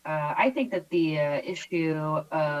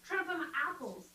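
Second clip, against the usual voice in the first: whisper; 9 semitones higher, 12 dB quieter than usual. Pretend. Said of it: "playful whispered aside".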